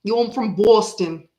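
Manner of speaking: put-on playful stab at a Boston accent; amateur Boston accent. Posing as a local for viewers, amateur Boston accent. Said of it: "I don't know if I'm doing it right".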